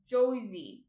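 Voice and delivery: "Josie" with the R dropped into an oy vowel; exaggerated "Joi-zee" for "Josie"; mock Jersey pronunciation. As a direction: say "Josie" like a caricature New Jersey local. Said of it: "No one says, uh, Josie".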